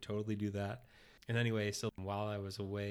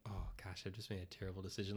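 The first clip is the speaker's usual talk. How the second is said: sinking dismay; 8 dB quieter, faster than usual. Retold or imitated. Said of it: "my heart sank".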